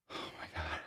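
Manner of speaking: whispered amazement; soft whispered reaction. Real, not acted. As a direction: breathe it out in disbelief. Reacting to toddler drinking.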